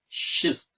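"şist" with an opening sh sound; pronounced şist. Shown as a demonstration. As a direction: say "şist" as one syllable starting with sh. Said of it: "diye telaffuz ediyoruz".

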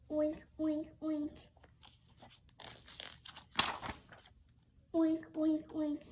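a chorus of happy pigs; pig oinks. Acted. More pigs oinking.

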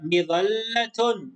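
مظلة read slowly with the doubled ل held long; teacher showing the shadda in مظلة; shadda stressed. Shown as a demonstration. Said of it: "لاحظوا التشديد هنا".

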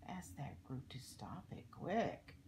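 put-on lilting story verse for children; read-aloud rhyme. A narrator's reading. Reading a rhyme about littering to children, storybook read-aloud. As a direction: read the verse out clearly, in measured phrases. Reads a rhyming book aloud.

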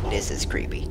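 whispered, as if spooked; creeped-out whisper. Real, not acted. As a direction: hush it, it's creepy in here. Creepy scene in game.

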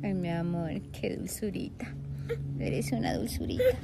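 soft, near-whispered tenderness; tender. Real, not acted. Mom cooing softly at her sweet baby.

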